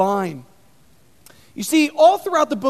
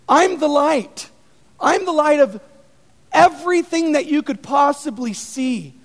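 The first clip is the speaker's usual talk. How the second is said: bold declaration; 2 semitones higher, 4 dB louder than usual. Retold or imitated. Jesus declaring in sermon.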